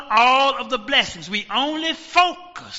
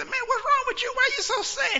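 concerned friend; 12 semitones higher, 5 dB quieter, faster than usual. Acted. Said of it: "And he said".

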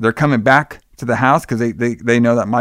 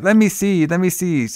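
put-on child voice; 6 semitones higher than usual. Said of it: "She's like".

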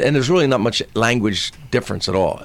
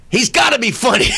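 mock announcer; 10 semitones higher than usual. Cruise director introducing comedian.

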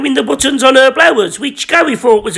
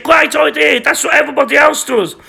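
calling out; 5 semitones higher than usual. Acted. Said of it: "And Gary said".

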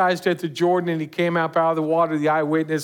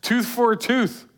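higher, louder, cocky tit-for-tat; mock vengeful retort; 5 semitones higher, 3 dB louder than usual. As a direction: throw it back like you want payback. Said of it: "I'm kinda like".

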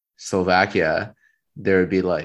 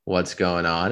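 ordinary delivery

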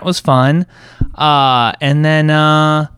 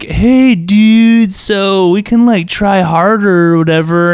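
higher, bright pleading players; mock friends voice; 7 semitones higher, 3 dB louder, slower than usual. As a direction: imitate the group offering to try harder. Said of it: "they were like".

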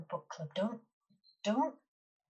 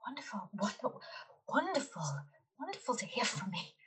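detective voice; 4 semitones higher, much faster than usual. Acted. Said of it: "Best detective voice".

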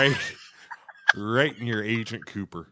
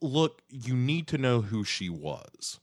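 slow measured Cooper; 4 dB quieter, slower than usual. Retold or imitated. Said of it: "he's trying to say".

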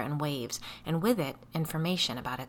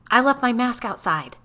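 higher, louder panicked cry; alarmed exclamation; 7 semitones higher, 9 dB louder than usual. Acted. Biddy panicking about her mask, high and loud. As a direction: blurt it out in alarm. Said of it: "Biddy exclaimed".

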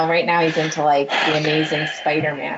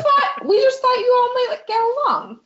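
mock crying; 4 dB louder than usual. Mock tearful plea for dads.

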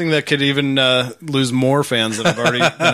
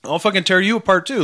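laughing; 7 semitones higher than usual. Real, not acted. Laughing rant about critic.

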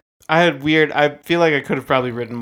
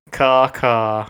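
crow caw. Pretend. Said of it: "like a crow laugh".

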